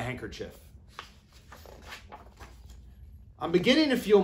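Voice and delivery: lively storybook read-aloud; reading to children. A narrator's reading. Teacher reading a picture book to her kindergarten class, animated. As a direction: read it like circle time for little ones.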